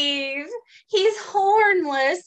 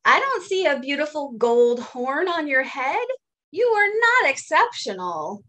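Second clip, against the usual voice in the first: Bob teasing; 3 semitones higher than usual. Acted. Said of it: "says Bob".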